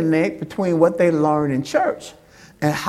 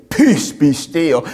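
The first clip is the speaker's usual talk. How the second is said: calm command; 7 semitones lower, slower than usual. Acted. Jesus commanding the sea.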